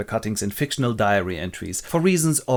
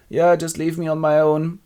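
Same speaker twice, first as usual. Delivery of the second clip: raised-pitch put-on woman's voice; put-out Lucy; 4 semitones higher than usual. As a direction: grumble as the friend left behind. Lucy left alone, acted.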